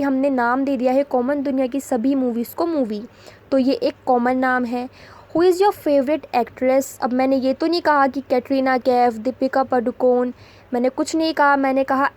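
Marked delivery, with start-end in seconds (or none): 5.4-7.0 very slow, each word set apart; slow dictation read. Shown as a demonstration. Teacher reading an example sentence to students, very slow. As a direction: spell it out slowly for the class.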